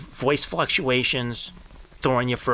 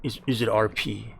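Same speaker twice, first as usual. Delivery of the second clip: lower, softer, disbelieving repeat; incredulous mutter; 4 semitones lower, 4 dB quieter than usual. Retold or imitated. Streamer repeating the RP question to himself, low muttered disbelief. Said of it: "repeating chat's question".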